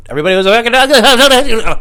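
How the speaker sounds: high, loud exclamation; comic outburst. Pretend. Comic agreeing his whole town was ugly, high comic yell. Shouted punchline about hometown.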